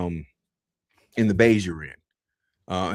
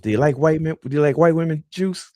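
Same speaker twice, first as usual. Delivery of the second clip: high, teasing sergeant voice; mock drill sergeant; 8 semitones higher, 3 dB louder than usual. Drill sergeant questioning a recruit, high and teasing. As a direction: lean in like setting a trap. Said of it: "He's like".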